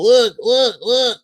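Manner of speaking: high, insistent mock kid; giggly kid's prompting. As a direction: imitate an excited kid urging friends. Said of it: "and you laugh and giggle".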